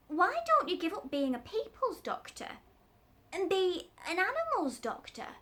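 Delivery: a chatty tradesman pitching an idea; a hint of a Cockney tradesman; cat's meat man.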